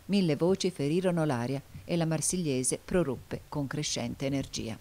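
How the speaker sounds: usual speaking voice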